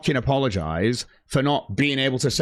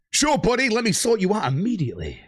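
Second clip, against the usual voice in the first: mock eager friend; 8 semitones higher than usual. Mocking the expected eager reply.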